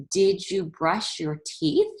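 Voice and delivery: slow, rising question tune; asking tone. Shown as a demonstration. Teacher reads Mom's question to the class, slow and rising. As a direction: let them hear the question. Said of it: "Do you hear the question there?".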